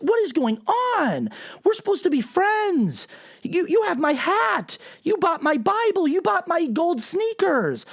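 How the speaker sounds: hammed-up high whine to his followers; Trump. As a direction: plead like a wounded friend, high and exaggerated. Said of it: "the substance of the post is him saying to his cult".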